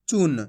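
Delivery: चून with a brief u; short vowel. Shown as a demonstration. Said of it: "तो कम खींच के पढ़ेंगे".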